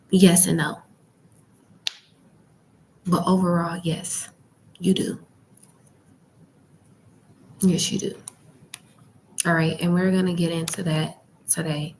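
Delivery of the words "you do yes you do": library whisper. Real, not acted. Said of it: "um, whispering".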